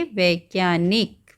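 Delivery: slow, spaced-out वै-ज्ञा-निक; syllable by syllable. Shown as a demonstration. Teacher giving children the answer to write, syllable by syllable. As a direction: draw out each syllable of वैज्ञानिक.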